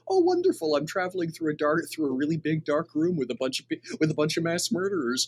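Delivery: high opening, then lively disbelief; chuckling mock delight. Renimal among mass murderers, chuckling mock delight. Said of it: "Renimal is going to be chuckling".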